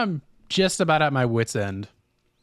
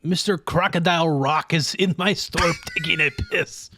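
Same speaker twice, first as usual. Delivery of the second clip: mock French shopkeeper; French accent; 3 semitones higher than usual. Shopkeeper reports a singer in French accent. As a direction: announce it in a put-on French accent. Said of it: "That French sneaker store".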